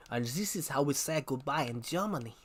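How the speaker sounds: Indiana Jones German villain. Retold or imitated. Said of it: "I love the bit in Indiana Jones".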